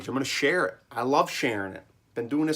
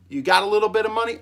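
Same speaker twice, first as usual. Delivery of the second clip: grandpa quizzing; 8 semitones higher, 6 dB louder, much faster than usual. Retold or imitated. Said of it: "he goes".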